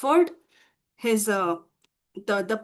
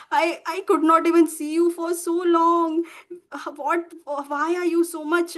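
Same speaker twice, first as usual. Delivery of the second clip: acted fond urgency, pitch held higher; emotional, loving concern; 5 semitones higher than usual. Krishna to his long-missed friend Sudama, emotional and concerned. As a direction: plead affectionately in a raised pitch.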